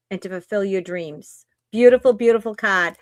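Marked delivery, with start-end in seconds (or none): 1.7-3.0 Boston "card" with the R dropped; loud Boston-accented "card". Real, not acted. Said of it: "That was very boss".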